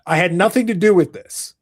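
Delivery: hammed-up protest of innocence; mock innocence. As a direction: play the wronged innocent, slow and grand. Hammy denial of posing question.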